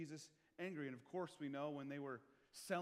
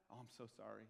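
mock sorry; 3 semitones lower than usual. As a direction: play it sheepish and sarcastic. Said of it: "No, Jesus was angry about that".

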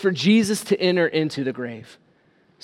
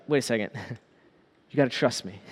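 quiet; 9 semitones lower, 12 dB quieter, much faster than usual. Acted. Jesus voiced, soft aside.

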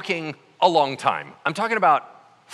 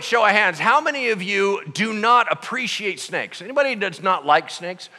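ordinary talk, nothing marked

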